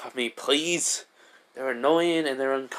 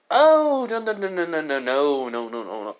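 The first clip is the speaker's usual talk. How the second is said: flustered denial; 3 semitones higher than usual. Acted. Izuku hurriedly denies being dead, flustered.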